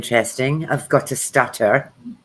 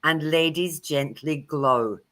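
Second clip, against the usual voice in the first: put-on Australian accent; 3 dB quieter, much slower than usual. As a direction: ham up an Australian accent for a saying. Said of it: "That was my best Australian accent".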